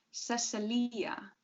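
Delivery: Cecilia drawn out slowly as seh-seh-LEE-uh; name with an I. A narrator's reading. Woman explains her respelled name, Cecilia as seh-seh-LEE-uh. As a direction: say Cecilia in four syllables, long LEE. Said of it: "with an I".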